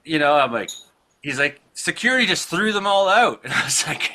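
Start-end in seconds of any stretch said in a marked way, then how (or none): 1.7-3.4 excited fan. Retold or imitated. Acted fan announcing the surprise outcome.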